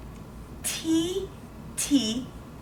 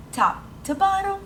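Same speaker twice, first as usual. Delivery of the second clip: sing-song stroke call; 11 semitones higher than usual. Shown as a demonstration. Teacher demonstrating writing strokes.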